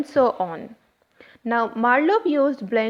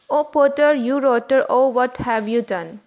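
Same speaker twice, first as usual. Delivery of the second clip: bouncy, louder, each beat hit hard; rhythmic meter reading; 3 dB louder than usual. Shown as a demonstration. Teacher beating out the meter for students, louder and bouncy. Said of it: "there is a rhythm of stressed and unstressed".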